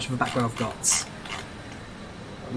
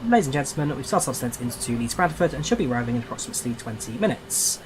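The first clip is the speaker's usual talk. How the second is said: pilot's PA to the passengers; calm captain announcing descent; plane cabin announcement. Shown as a demonstration. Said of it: "one of the worst announcements I've ever made".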